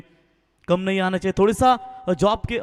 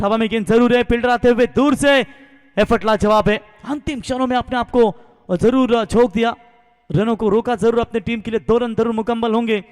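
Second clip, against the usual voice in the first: raised, eager live call; excited cricket commentary; 2 semitones higher, 4 dB louder than usual. Real, not acted. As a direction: build it up as the fielder dives. Fielder's diving effort called live.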